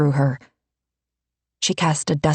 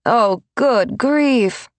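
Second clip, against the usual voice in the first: muttered; 7 semitones higher, much slower than usual. A narrator's reading. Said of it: "Kamaria muttered".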